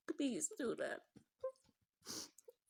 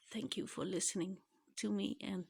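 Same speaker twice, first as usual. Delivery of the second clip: blubbering; 4 dB quieter than usual. Real, not acted. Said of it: "sorry for the crying".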